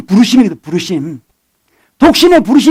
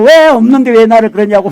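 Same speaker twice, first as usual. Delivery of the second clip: acted resentment. Preacher imitating someone blaming God, mock resentful whine. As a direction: lightly act out a bitter complaint. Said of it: "원망하고".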